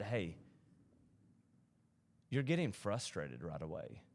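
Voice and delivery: slow, gentle correction with pauses; kindly. Retold or imitated. Voicing God correcting him over his frustration, kindly. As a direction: counsel softly and patiently, unhurried. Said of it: "he spoke to me so kindly".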